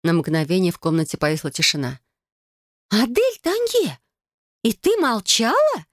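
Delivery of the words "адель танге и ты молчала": much higher, slow outraged full name; indignant. Acted. Cousin indignant that Adel kept silent, outraged. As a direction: scold her by full name, drawn out. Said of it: "возмутилась кузина".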